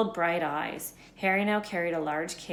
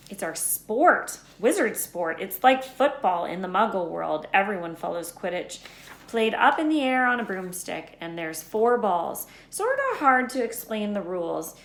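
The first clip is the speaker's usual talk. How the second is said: lightly voiced Hagrid; 2 semitones higher, 5 dB louder than usual. Hagrid explaining Quidditch to Harry, lightly voiced. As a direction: explain wizard sport with eager bluster.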